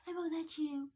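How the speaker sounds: high, soft, toneless refusal; mocking dim officer. Officer answering the car owner, mimicked mockingly. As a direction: parrot her refusal in a small high voice. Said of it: "she's talking like this".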